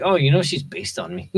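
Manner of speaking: high, airy retold brag; hammed-up bragging; mock boast. Voicing the character's boast.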